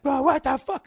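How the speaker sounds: high, loud imitation of an outraged driver; mock outrage. Imagined neighbor reacting to zigzagging car, mock-outraged yell. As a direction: burst out like the riled-up neighbor. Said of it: "getting all like".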